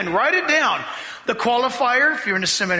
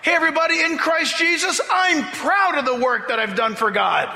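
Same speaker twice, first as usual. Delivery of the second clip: boastful announcement; 5 semitones higher than usual. Pretend. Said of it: "Nobody would say that".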